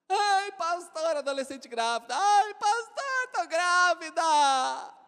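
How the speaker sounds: put-on high, slow, pleading girl voice; high drawn-out plea of a pregnant teen; whiny teen girl. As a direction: whine it out like a scared teenager.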